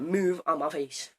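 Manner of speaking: slow, deliberate command; slow curt order. Retold or imitated. Ordering the teacher out of his face, slow and menacing. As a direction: spell out each word slowly, threatening. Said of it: "I just went".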